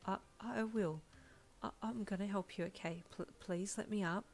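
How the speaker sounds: hesitant, stammered plea; mildly frightened, faltering voice; breathless fear. Acted. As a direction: beg haltingly, short of breath. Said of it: "you could barely breathe".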